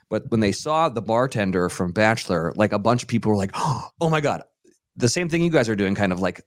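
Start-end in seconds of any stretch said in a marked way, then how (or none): 3.5-4.4 sharp gasp, then higher-pitched exclamation; mock starstruck. Actors spotting the bartender from Bachelor, mock starstruck. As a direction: imitate fans spotting a reality star. Imitating starstruck people at party.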